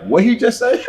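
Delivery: high-pitched, laughing imitation of teasers; mock teasing. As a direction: mimic people making fun, voice jumping up. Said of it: "people would make fun of me".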